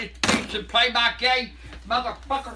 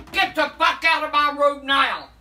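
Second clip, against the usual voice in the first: loud, furious order to get out; grandma yelling at her prankster grandson to leave; angry yelling; 3 semitones higher, 5 dB louder than usual. Real, not acted. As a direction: throw him out of the room, loud.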